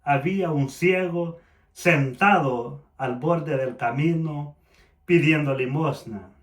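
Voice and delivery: measured, evenly paced Bible reading; scripture reading. A narrator's reading. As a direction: read the passage aloud to the congregation. Reads scripture aloud.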